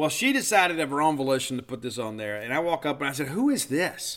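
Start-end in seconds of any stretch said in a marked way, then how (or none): 3.3-4.2 derisive, superior, haughty sneer, pitched up. Retelling walking up and asking her about the cd she put on, mock-haughty, derisive tone. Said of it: "with that same haughty tone of derision".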